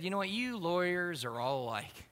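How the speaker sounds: calm, unhurried retort; calm officer. Retold or imitated. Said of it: "the police officer just very calmly".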